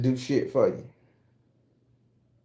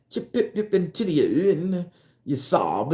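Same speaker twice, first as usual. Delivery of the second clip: mock British babble; 3 semitones higher than usual. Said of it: "they have a way of talking".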